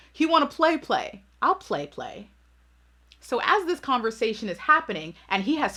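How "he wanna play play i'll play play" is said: petty playful threat. Real, not acted. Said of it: "the petty side of me".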